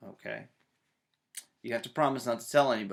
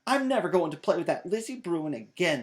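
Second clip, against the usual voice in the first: louder, sulky outburst; angry shout; 6 semitones higher, 6 dB louder than usual. A narrator's reading. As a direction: stomp in and announce it. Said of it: "shouted Sister".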